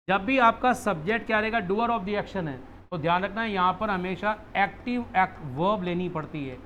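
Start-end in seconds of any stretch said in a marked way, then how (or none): 1.6-2.9 slow dictation. Shown as a demonstration. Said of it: "तो मैंने कहा".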